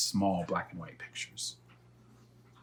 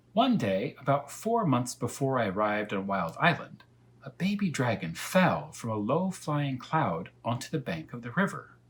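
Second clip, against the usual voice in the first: higher animated cat voice; storytelling cat; 4 semitones higher than usual. Acted. Cat telling Elmer the dragon's tale, lifted voice. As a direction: tell it like a wise cat.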